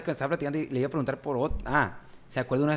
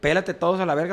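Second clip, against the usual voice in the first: retold yell; 4 semitones higher, 6 dB louder than usual. Shooting starts outside, someone yells.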